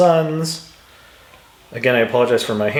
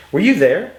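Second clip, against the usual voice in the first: "Were you there?" asked higher, peaking on you; questioning intonation; 5 semitones higher, 4 dB louder than usual. Shown as a demonstration. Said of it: "Sounds like a question".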